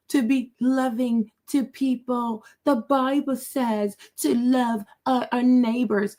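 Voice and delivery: lightly voiced meek pious woman; a hint of a simpering plea; mock meek plea. Mocking the bishop's meek plea to the president. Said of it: "she tries to appear meek".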